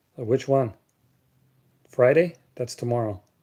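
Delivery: sarcastic, mock-puzzled tone. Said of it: "I'm being sarcastic".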